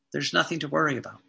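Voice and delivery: "There's nothing to worry about" said fast and soft; quick reassurance. Real, not acted.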